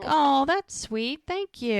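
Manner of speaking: high, drawn-out cooing thanks; touched thanks. Retold or imitated. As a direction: coo it slowly, as if touched by a gift. Acting thanks for a gift.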